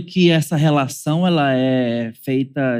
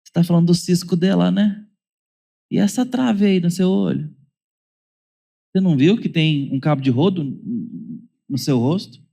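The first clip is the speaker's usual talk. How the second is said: lightly comic Jesus; 3 semitones higher than usual. Retold or imitated. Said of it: "foi até um tanto cômico".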